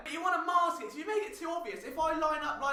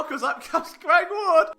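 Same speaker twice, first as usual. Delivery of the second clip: triumphant announce; 6 semitones higher, 8 dB louder, slower than usual. Real, not acted.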